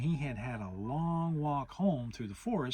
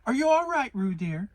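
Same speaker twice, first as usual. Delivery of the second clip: much higher, louder call; worried Kanga; 9 semitones higher, 9 dB louder than usual. Acted. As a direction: check on her baby as Kanga. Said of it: "said Kanga".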